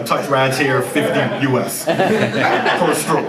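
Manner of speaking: slow, laughing mock sales pitch; joking pitch. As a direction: sell it like a joke ad, chuckling.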